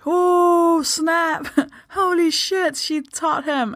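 high-pitched mock awe; imitating scandalised Brits. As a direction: gasp in hammed-up shock, stretching the words. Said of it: "all British people are like".

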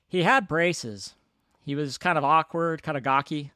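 lightly put-on reporter-like voice; a hint of an old-style reporter; Joe Dante. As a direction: quote it in a slightly announcer-ish voice. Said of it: "I don't know why I'm doing this voice".

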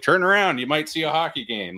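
high, exasperated heckle; mock yell at someone blocking the view; re-enacting an annoyed fan's holler; retold yelling. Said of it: "I was yelling at him".

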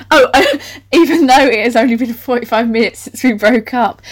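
reading through laughter; laughing. Real, not acted. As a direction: struggle to read on while cracking up. Reads on while laughing.

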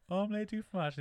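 high-pitched mock French catchphrase; retold cartoon reply. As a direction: pitch it right up, imitating the brainwashed hero. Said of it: "And he's like".

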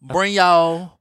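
light mock Southern echo; imitated Southern accent. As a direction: mimic the Southern drawl lightly. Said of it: "That was very southern".

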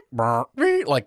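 squeaky mouth-made cartoon effect; imitated cartoon noises. Imitating the pony being patted on the head, cartoon noises. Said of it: "total cartoon noises".

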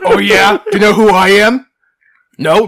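loud, high indignant demand; entitled brat shout. Pretend. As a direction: bellow it like a spoiled rich kid.

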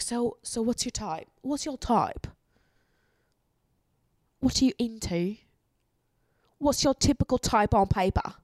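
imitating a British guy, a bit rough; a not quite polished British accent; a casual British accent asking about your type. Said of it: "me trying to perfect my British accent. It's pretty bad right now".

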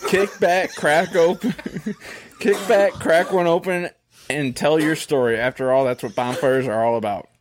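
ad read. Acted. Continues beer ad copy.

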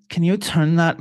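mock Puerto Rican mom voice; mom's Puerto Rican accent. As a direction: lightly imitate a Puerto Rican mother complaining. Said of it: "My mom's got a Puerto Rican accent".

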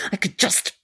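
a busybody friend who scolds and coddles by turns; fussing friend. Acted. Friend fussing over heartbroken Mona at her bedside, scolding then soothing. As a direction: chatter on, half scolding, half soothing. Radio play monologue.

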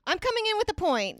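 loud, high, insistent interruption; high pitch. Shown as a demonstration. Comic forcing into a group conversation, high-pitched and loud. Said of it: "my way of being like".

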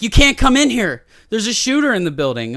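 high, loud mock-frantic warning; acted panicked teacher. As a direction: shout him away from the locked door. Retold panicked teacher behind locked door.

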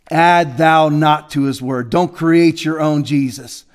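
slow, grave pulpit warning; solemn preaching. Acted. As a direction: lay down the scripture slowly and heavily.

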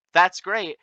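pointed retort. Retold or imitated. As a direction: lay it on with pointed, drawn-out disbelief.

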